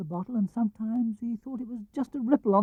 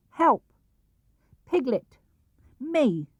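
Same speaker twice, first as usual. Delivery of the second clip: Piglet calling help; 7 semitones higher, much slower than usual. A narrator's reading. Piglet writes help note.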